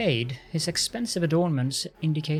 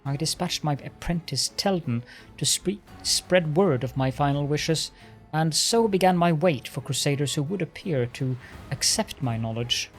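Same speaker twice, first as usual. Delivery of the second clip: arrogant lich voice. Acted. Lich tells his history.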